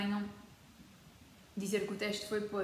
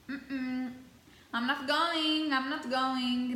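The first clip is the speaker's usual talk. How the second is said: dramatic refusal; 4 semitones higher, 4 dB louder, much slower than usual. Real, not acted. Refusing to be weighed.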